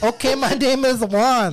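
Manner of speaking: lightly put-on high Cuban accent. Hamming a Cuban accent for his friends. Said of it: "That's my character".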